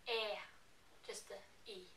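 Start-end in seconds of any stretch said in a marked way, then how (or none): 0.1-0.3 e said as a bare e; western e. Shown as a demonstration. A Norwegian showing the western dialect, a bare e. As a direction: say e, just the vowel. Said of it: "they would say".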